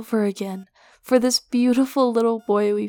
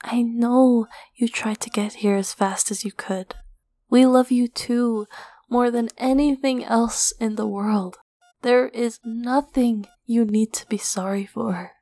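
calm him gently, half whispering; soothing whisper. Acted. Mother soothing guilty husband.

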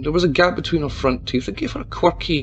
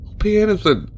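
higher, pleading through tears; desperate sobbing offer; 8 semitones higher than usual. A narrator's reading. Mayor offers Tabitha money, sobbing. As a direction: offer everything in despair. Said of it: "the mayor sobbed".

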